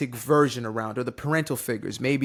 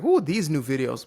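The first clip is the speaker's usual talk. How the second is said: slow, drawn-out mock girlfriend voice; a hammed-up loving girlfriend impression; imitating his girlfriend; 2 semitones lower, slower than usual. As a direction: stretch it out like a doting partner. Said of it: "she doesn't sound like that".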